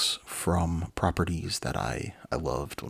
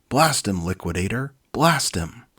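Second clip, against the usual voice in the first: commanding shout; 3 semitones higher, 6 dB louder than usual. Acted. Hero orders fire at monster.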